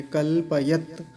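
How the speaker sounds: कल्पयत slowly, ending on a bare त with no vowel; stop on the t. Shown as a demonstration. Teacher showing the stop on the halant त. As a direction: halt right at the final त. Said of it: "तकार पर हलंत है तो वहीं रुक जाएंगे".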